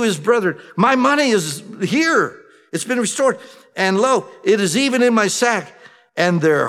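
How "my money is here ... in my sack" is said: higher-pitched amazed cry, money found in the sack; astonished discovery. Acted. Brother shows his brethren the money, astonished. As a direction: sound stunned to find it there.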